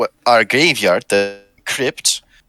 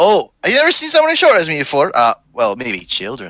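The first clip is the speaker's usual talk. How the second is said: swooping put-on Scottish accent on a character; 4 semitones higher than usual. Voicing a short scooter-holding character for players: Scottish accent. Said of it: "We'll just go with the Scottish accent".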